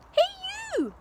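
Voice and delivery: high piercing yell. A narrator's reading. Grandma yelling down at George from the roof. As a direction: bellow it across the rooftop. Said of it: "she yelled".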